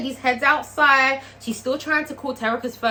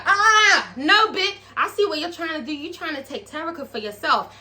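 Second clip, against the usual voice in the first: accusing outburst; 4 semitones higher than usual. Retold or imitated. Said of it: "Shell's like".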